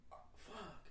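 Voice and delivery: soft, sinking curse; dismayed muttering. Retold or imitated. Student just sent to the dean, quietly dismayed. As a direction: let it out quietly, as if busted. Busted student's dread in retold story.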